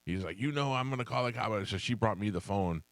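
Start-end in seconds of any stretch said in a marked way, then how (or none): 0.4-1.7 mock yelling caller. Old man threatening the wife, mild mock yell. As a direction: lightly voice an irate old man. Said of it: "and the guy's yelling".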